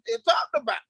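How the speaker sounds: ひそひそ声の内緒話; whispered aside. Real, not acted. Playful hushed aside about O G.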